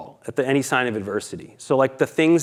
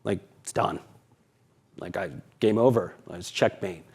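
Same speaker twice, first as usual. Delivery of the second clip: quiet, defeated retelling; a hint of tears, fading softer to the end; defeated, crying; 3 semitones lower, 4 dB quieter than usual. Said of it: "and I say".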